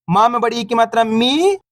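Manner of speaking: final "मी" stretched long and rising; teacher's chant ending on a long "मी"; drawn-out vowel. Shown as a demonstration. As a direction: spell it out, then hold the ee in "मी". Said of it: "अपन खींच खींच के पढ़ेंगे".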